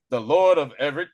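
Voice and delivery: loud retold indignation; mock indignant. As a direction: puff it up in protest. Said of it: "they tried to get indignant with her".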